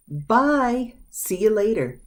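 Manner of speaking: high bye, then see you later; cheerful goodbye. Shown as a demonstration. Teacher demonstrating a cheerful goodbye. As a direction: wave someone off. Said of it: "These are both used".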